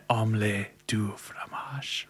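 whispered, slow, like a skipping CD; slow whispered stuck-record phrase. Retold or imitated.

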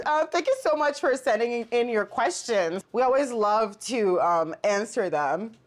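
stiff robot voice. Pretend. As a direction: read it like a robot. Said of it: "you talking like a robot?".

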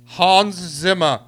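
loud, slow Oscar announcement; awards presenter voice. Pretend. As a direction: draw it out like an awards host. Announces the winner.

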